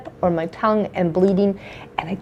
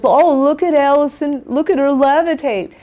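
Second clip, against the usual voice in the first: higher-pitched mock marveling; imitated taunt; 5 semitones higher than usual. Patient retelling the dentist's jibe as she cried, imitated taunt. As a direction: imitate someone making a spectacle of a patient.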